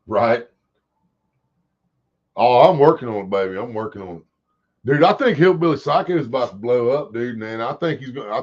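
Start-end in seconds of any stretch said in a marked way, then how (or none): 2.4-3.6 calls it out loud and firm; loud reassurance. Real, not acted. Replying to chat, then repeating. 3.6-4.2 softer, muttered to himself; quiet repeat. Real, not acted.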